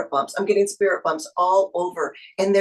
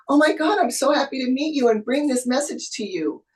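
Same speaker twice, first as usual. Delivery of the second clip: thrilled; 6 semitones higher than usual. Real, not acted. Tarot reader thrilled to bring the client her message, excited. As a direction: voice jumps up with real delight.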